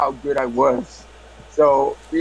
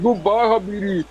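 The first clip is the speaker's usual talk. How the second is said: mock Arab accent, pitched up; 5 semitones higher than usual. Prank caller hangs up as an Arab, mock Arab accent. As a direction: sign off as an Arab. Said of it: "to an Arab".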